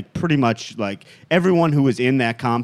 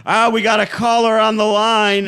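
louder, higher radio host; 10 semitones higher, 5 dB louder than usual. Retold or imitated. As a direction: announce the caller like a DJ. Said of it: "he's like".

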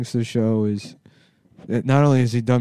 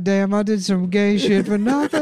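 high mock voice; 11 semitones higher, 4 dB louder than usual. High voice with laughter.

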